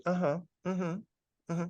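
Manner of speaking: high, absent-minded mom murmurs; uninterested mother. Retold or imitated. Mother ignoring son's big news, high distracted voice. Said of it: "she didn't give a shit".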